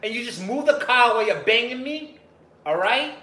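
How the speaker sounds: loud, high mock sex moans from a woman; moaning woman.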